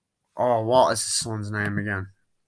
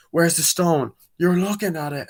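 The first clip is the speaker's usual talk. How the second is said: mock heated exchange; 7 semitones higher, 4 dB louder than usual. Confrontation exchange.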